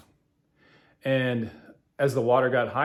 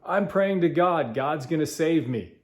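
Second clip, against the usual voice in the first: yelling up; 5 semitones higher than usual. Retold or imitated. Stranded man yells up to helicopter crew, high retold yell. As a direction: call it up to the helicopter. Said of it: "He yells up".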